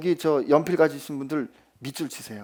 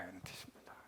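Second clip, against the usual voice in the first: whisper; 10 semitones lower, 27 dB quieter, faster than usual. Acted. Preacher drops to a hush.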